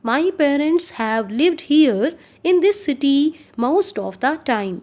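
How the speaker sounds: very slow, clear dictation pace; spoken like a teacher dictating; slow example reading. Shown as a demonstration. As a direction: read each word out slowly for the class.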